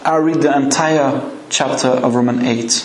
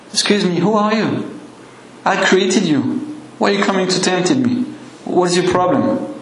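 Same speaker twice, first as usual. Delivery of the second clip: higher-pitched, affronted questioning; mock indignant challenge; 5 semitones higher than usual. Preacher voicing the reply Jesus never gave, mock indignant. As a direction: act out an offended comeback, pitched up.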